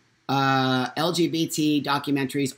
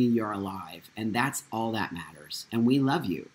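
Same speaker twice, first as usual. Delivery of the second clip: tender acceptance; 4 semitones lower than usual. Retold or imitated. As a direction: gently reassure your child, voice settling low. Retold mother's accepting, loving reply.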